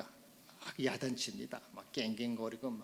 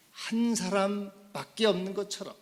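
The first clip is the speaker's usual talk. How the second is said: raised, higher preaching voice; impassioned preaching; 7 semitones higher, 6 dB louder than usual. Acted. Preacher voicing God's love for one chosen person, impassioned preaching. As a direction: proclaim it with force, pitched up.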